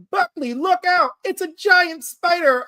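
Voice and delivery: high-pitched hammed-up warning cry; mock scream. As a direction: play a panicked comic-book shout, stretched at the end. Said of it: "Wagner screams".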